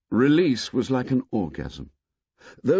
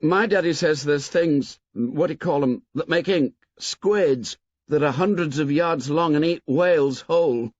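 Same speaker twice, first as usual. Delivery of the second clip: put-on boy's voice; 6 semitones higher than usual. A narrator's reading. Maurice voiced, higher boy voice.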